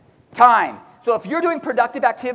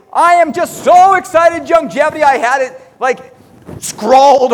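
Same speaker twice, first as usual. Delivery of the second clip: mock gushing; 5 semitones higher, 6 dB louder than usual. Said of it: "Some of you will tell me".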